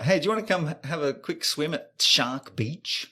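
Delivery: high, cheery mock invitation; cheery invite. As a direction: breezily invite a mate swimming.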